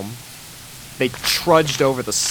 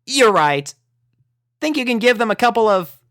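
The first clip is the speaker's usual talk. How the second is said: resigned pony; 11 semitones higher, 5 dB louder than usual. Acted. Rainbow voice.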